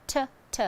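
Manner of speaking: "t, t" as two short crisp t sounds; t sound isolated. Shown as a demonstration. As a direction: tap out the "t, t" sound cleanly. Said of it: "This sound is repeated".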